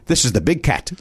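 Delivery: lightly imitated, bad accent; a touch of put-on foreign accent; Andres Galarraga. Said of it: "pardon the, the horrible accent".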